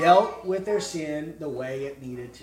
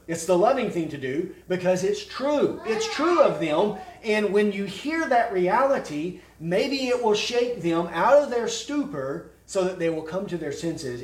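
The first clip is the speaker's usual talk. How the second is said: loud, raised pulpit voice; forceful preaching; 6 semitones higher, 7 dB louder than usual. Real, not acted. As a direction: press it on the congregation with force. Preacher builds to full force.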